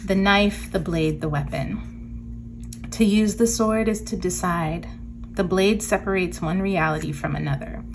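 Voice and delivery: measured card-reading narration; reading aloud. Real, not acted. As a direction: read the guidebook text out with deliberate phrasing. Reads card text aloud.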